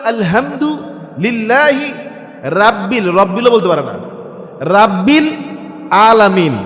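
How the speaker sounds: slow, fumbling "রাব্বিল" with a plain a; sloppy recitation. Retold or imitated. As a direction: stumble over "রাব্বিল" like an untrained reciter. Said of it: "এখন আপনি বলবেন". (ভুল উচ্চারণে তিলাওয়াত)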